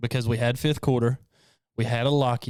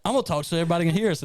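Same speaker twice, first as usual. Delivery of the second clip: Lori; 5 semitones higher, much faster than usual. Retold or imitated. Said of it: "Lori's like, "I'm gonna talk like this".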